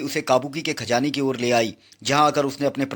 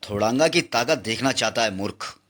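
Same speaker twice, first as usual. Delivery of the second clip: gloating villain; 5 semitones lower than usual. Acted. Thodanga sneers at Nagraj from under the elephant, low and menacing. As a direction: taunt him like a brute.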